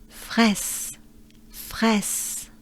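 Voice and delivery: "Fraise" com R francês e "ai" aberto; French fraise. Shown as a demonstration. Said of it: "here is what we're looking for".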